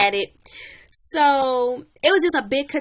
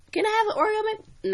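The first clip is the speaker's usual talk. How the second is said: put-on very high, begging kid sister voice, cut off; nagging little sister; 12 semitones higher than usual. Little sister begs for an Oreo McFlurry, nagging. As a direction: start another plea before being cut off. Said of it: "she just kept nagging me".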